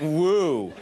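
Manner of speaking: a small half-hearted audience woo; a polite little cheer; lone fan's modest woo; imitating a mild woo. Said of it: "One of you went".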